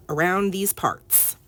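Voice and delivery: put-on slow, drawn-out Southern accent. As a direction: slip into a Southern accent, slowly. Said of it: "why the Southern accent".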